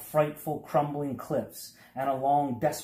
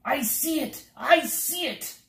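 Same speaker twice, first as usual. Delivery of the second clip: much higher, gleeful repeated cry; happy excited; 3 dB louder than usual. A narrator's reading. Humbug seeing the castle, high gleeful cry. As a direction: bubble over with joy at the sight. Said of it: "said the happy bug".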